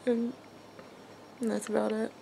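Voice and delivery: whispery tearful fade; snotty crying. Real, not acted. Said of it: "I'm even crying on camera".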